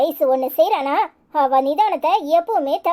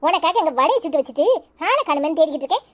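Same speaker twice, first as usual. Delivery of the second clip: ordinary delivery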